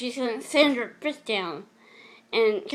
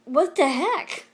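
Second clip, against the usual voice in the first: high, louder, slowed-down what the heck; shocked disbelief; 5 semitones higher, 5 dB louder, slower than usual. Retold or imitated. Shoved against the wall, shocked higher louder cry. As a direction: blurt it out in stunned alarm. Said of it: "I thought".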